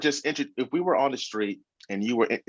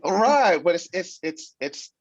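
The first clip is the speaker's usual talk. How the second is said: laughing; 9 semitones higher, 4 dB louder, slower than usual. Real, not acted. Laughing at teasing.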